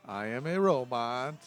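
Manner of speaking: slow robotic Borat impression; a slow, stilted robot with a Borat accent. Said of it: "a Borat voice, like".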